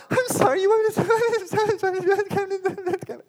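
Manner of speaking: put-on very high, slow disbelieving child voice; a frightened little boy, squeaky and slow; stunned child. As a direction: stretch it out like a boy who can't believe it. Voicing young Samuel's disbelief.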